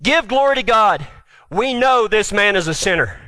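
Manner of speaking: religious people. Acted. Religious leaders accusing the healer, lightly voiced officials. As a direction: pronounce judgment like religious officials. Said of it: "this is the religious people talking".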